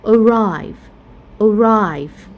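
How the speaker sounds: "arrive" stressed on RIVE; light first syllable, strong end in "arrive"; "arrive" as a-RRIVE, twice; second-syllable stress. Shown as a demonstration. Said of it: "we stress at the second syllable".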